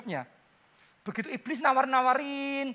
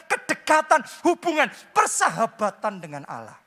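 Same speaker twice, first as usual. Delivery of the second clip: raised, insistent preacher's exhortation; forceful preaching; 4 semitones higher, 6 dB louder than usual. Real, not acted. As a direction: drive each phrase home loudly, higher in pitch. (khotbah berapi-api, suara meninggi)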